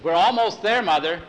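put-on girl calling back to her mother from the wagon seat; yelling back. A narrator's reading. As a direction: call back over the wagon noise. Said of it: "she'd yell back at her mother".

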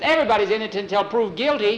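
put-on high, fast, loud boyish claim; boy's urgent argument. Boy arguing law for his dog, urgent high voice. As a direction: rattle it off high and insistent.

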